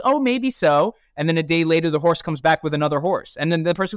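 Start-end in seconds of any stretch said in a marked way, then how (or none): 0.1-0.9 higher, lightly voiced calm farmer; imitating a wise old man who is not fazed; unbothered shrug. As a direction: shrug it off like nothing matters.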